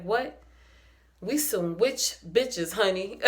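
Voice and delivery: slow, sassy drawl of the line; imitating Gigi. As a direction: deliver it like Gigi's proud boast. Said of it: "Let me see if I can say it like Gigi".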